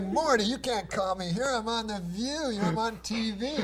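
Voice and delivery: exasperated comic Jewish agent voice; crazy Jewish accent. Retold or imitated. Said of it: "I had this crazy Jewish accent in the story".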